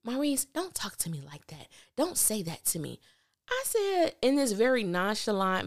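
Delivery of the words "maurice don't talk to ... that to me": mild pleading. Retold or imitated. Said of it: "she would be like".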